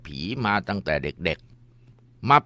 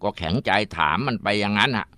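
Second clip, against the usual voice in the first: ordinary talk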